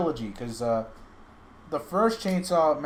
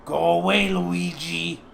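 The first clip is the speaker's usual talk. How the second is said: Mario brush-off; 4 semitones higher, 5 dB louder, slower than usual. Acted. Mario answers brother.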